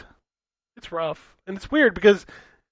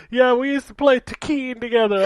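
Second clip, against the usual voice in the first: imitating Michelle Rodriguez; 6 semitones higher, 3 dB louder than usual. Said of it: "It was Michelle Rodriguez, like".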